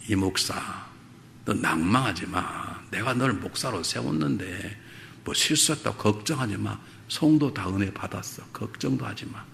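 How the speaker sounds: soft, slow, hushed comfort to a worried pastor; voiced as God gently reassuring him, fading to a whisper; gentle reassuring voice. God softly comforting the pastor, hushed and slow.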